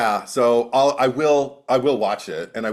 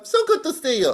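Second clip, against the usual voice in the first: higher mock French try; French accent attempt. Shown as a demonstration. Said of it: "I think I'll be French".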